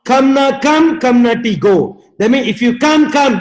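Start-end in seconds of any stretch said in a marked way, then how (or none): 0.0-2.0 mystic voice. Retold or imitated. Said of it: "I hear that sound".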